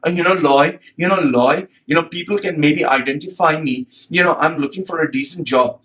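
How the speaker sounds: a hint of a lisping, pleading job seeker; mock effeminate voice. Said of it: "he sound like this guy, he sound gay".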